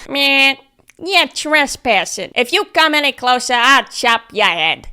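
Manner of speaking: slow, menacing silly bunny. Retold or imitated. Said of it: "oh wait, I gotta do my bunny voice".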